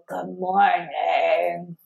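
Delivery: very slow, lightly voiced old man. Shown as a demonstration. Owner voices her grumpy dog as an old man, slow. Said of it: "like an old man".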